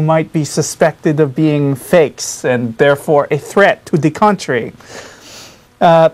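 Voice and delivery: a light put-on Spanish accent as a 16th-century Inquisitor. Spanish inquisitor explaining his customs to the audience, lightly Spanish-accented. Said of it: "I can keep up this accent".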